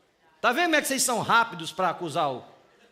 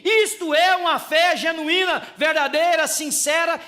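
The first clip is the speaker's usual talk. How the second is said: preaching at full force; 6 semitones higher, 7 dB louder than usual. Real, not acted. Sermon climax.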